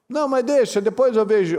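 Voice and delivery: high, breezy brush-off; careless excuse. Retold or imitated. Preacher mocking a careless believer, high breezy brush-off. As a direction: toss it off like someone putting it off.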